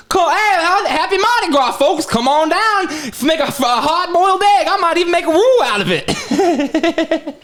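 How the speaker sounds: put-on Cajun accent. Video host greeting fans for Mardi Gras, hammy Cajun. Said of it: "was me going".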